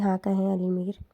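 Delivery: quiet, weary reply; sad and soft. A narrator's reading. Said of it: "اداس خاک زادی آہستہ سے بولی". (اداس، دھیمی آواز میں)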